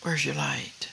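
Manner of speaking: breathy whisper, falling at the end; whispered question. Real, not acted. Preacher whispering the question to the congregation, hushed.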